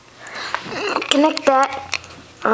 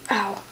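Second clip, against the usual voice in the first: pained ow; 6 semitones lower, 9 dB quieter than usual. Real, not acted. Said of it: "bit my tongue".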